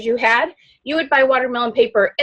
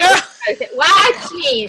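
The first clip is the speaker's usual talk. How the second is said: higher, bright catchphrase call; mock excited seller; 5 semitones higher than usual. Repeating the seller's catchphrase to her audience, hammed up. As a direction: ham it up like a bubbly online seller.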